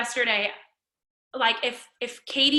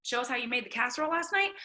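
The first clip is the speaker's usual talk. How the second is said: ordinary talk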